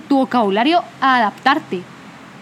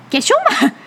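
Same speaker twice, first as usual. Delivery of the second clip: posh friends voice; 9 semitones higher than usual. Retold or imitated. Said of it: "los mis reyes y me dicen".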